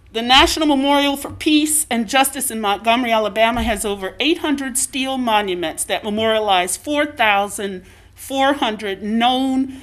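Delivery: speaking through a face mask; muffled by face mask. Real, not acted. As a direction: talk through a cloth mask. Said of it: "It's really weird talking with a mask on".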